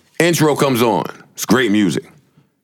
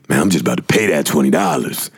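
friend resigned; 9 semitones lower than usual. Retold or imitated. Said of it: "He said".

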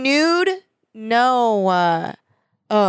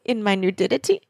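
lightly imitated question, rising at the end; mild comedian impression. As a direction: quote a comedian's incredulous line, lightly. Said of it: "And she's like".

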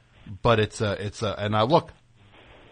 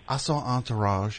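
put-on Southern accent; 3 dB quieter than usual. Host quoting his friend Dudio, mock Southern accent. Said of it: "why am I giving him that accent?".

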